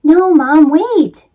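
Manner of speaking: shouting. Acted. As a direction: stop mom with a shout. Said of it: "Jamie shouted".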